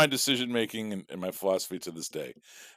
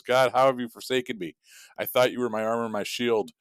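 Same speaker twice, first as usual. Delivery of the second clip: raised pitch, mock-wounded complaint; aggrieved reproach; 4 semitones higher than usual. Drowned believer confronting God in heaven, aggrieved reproach. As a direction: plead your case as if betrayed.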